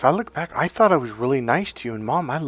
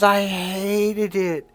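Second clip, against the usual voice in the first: higher, very slow, bitter mother voice; imitated resentment; 8 semitones higher, much slower than usual. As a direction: drag it out like the mother's grudge, higher. Mother confessing resentment, voiced by son.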